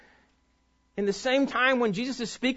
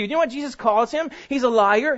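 ordinary talk, nothing marked

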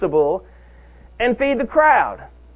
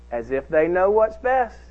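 usual speaking voice

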